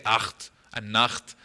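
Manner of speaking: acht and nacht with a rasping ch at the back of the throat; eight and night as acht and nacht; old German-style gh. Shown as a demonstration. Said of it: "We don't say".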